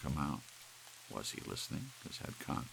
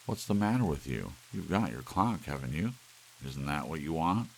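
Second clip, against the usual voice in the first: louder, impatient questioning; annoyed demand; 2 semitones higher, 6 dB louder than usual. Acted. Larry to Doris, impatient and annoyed. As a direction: push her for an answer.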